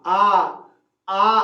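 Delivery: a hint of a coaxing doctor, with a long open आ; doctor gently asking a child to say आ, with a drawn-out आ. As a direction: mildly coax a child to open wide, stretching आ. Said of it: "doctor क्या बोलते हैं".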